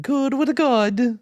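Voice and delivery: put-on slow, high half-British pirate accent. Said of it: "That was half British, half pirate".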